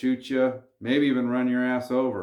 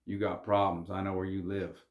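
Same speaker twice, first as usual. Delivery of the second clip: softer, dead calm warning; calm quiet threat; 3 semitones lower, 8 dB quieter than usual. Retold or imitated. Gangster coolly threatening the buddy's dad, calm and soft. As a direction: say the threat softly and evenly. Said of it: "addressed him very calmly".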